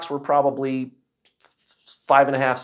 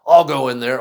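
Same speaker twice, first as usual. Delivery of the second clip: daring; 5 dB louder than usual. Retold or imitated. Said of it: "guys are daring each other".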